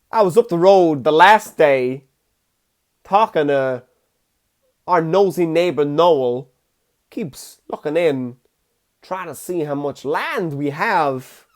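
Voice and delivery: mock farmer grumbling to his son; Christopher Walken. Imagining Walken as Irish farmer telling his son, drawled. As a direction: draw out the ends of the gossip. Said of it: "talk to his son and being like".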